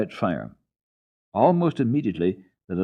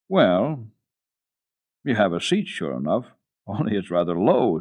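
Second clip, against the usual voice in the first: put-on chuckling old man; amused grandfather; 4 dB louder than usual.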